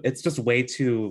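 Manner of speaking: fighting back a laugh, slowed; barely holding in laughter; stifled giggles. Real, not acted. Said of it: "I'm trying not to laugh".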